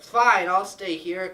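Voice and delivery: loud, slow, grudging agreement; exasperated giving in. Acted. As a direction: give in loudly, drawing out each word. Belle gives in to the Beast.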